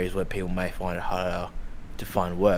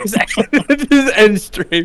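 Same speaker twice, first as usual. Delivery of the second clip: drawn-out slow; 12 semitones higher, 8 dB louder, much slower than usual. Pretend. Mocking the end-stream redeem.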